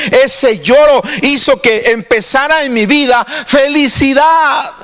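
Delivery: a real catch of tears rising in the voice. Real, not acted. Pastor recalling his conversion to the church, choked with real tears. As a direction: let the tears come through as you speak.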